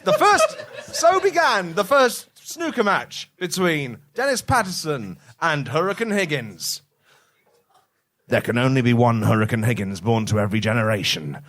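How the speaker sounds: grand storytelling narrator; dramatic narrator. Acted. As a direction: announce it like an epic legend. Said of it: "Dramatic narrator".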